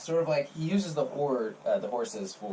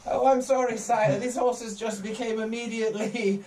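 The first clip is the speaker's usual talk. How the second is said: fawning servant voice, pitched up; stablehand voice; 6 semitones higher than usual. Acted. GM voicing stablehand excuses.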